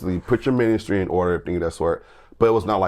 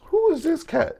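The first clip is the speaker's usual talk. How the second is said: high, astonished whisper of the room; mock the room's shocked murmur; stunned onlookers. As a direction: bystanders stunned by the guest.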